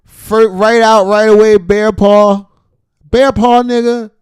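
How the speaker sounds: high, drawn-out yelling in disbelief; loud, appalled outburst; incredulous shout. Real, not acted. Shocked outburst at the video.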